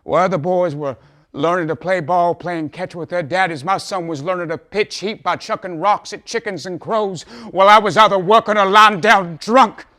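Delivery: high and loud, swelling to a shout; impassioned outburst. Acted. Father boasting of his son and confessing his own failings, impassioned. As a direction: cry it out like a fervent testimony.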